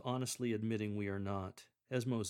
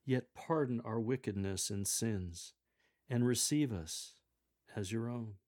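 "pardon" and "receive" stressed, falling tunes; announced prayer. Shown as a demonstration. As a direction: proclaim it, leaning on "pardon" and "receive". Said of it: "when you announce".

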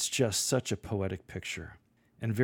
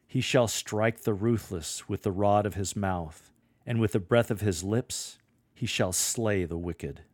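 brutal and bold; 3 dB louder than usual. Shown as a demonstration. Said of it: "What follows is brutal".

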